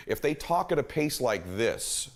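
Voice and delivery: slow, measured demo pace. Shown as a demonstration. Showing listeners a client's pace, slow. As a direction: lay it out slowly and evenly. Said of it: "talking at this pace right now".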